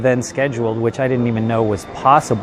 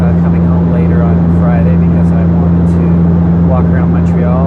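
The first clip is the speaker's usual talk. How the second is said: raised voice over loud propellers; talking over engine noise; 6 dB louder than usual. Real, not acted. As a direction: speak up over a noisy cabin. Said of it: "so that's why it's so loud right now".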